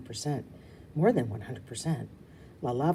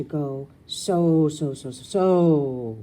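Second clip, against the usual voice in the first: gushing; 8 dB louder, much slower than usual. Shown as a demonstration. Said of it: "express myself the way Rue does".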